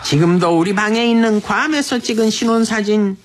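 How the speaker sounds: unhurried, performed Busan-dialect letter reading. Acted. Radio host reads husband's letter for wife's sixtieth, Busan dialect.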